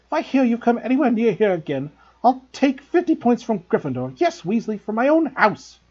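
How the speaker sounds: high, loud furious scolding; teacher losing her temper at pupils; storming. A narrator's reading. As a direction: let your temper fly. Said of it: "she stormed".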